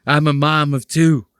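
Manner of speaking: mock mom voice. Mocking the super chat mom.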